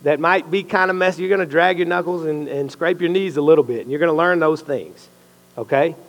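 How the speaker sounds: preacher voicing God's promise. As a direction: speak as God promising to change you. Voicing God speaking to him.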